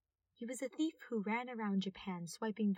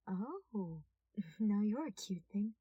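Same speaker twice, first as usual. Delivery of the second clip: smirking; slower than usual. Acted. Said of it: "he smirked".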